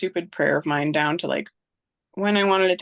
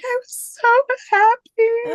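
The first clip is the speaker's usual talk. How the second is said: put-on much higher, louder child's voice; young daughter; 6 dB louder, slower than usual. Daughter telling mom why she cried, high child voice. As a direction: voice the little girl, bright and high. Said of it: "she was like".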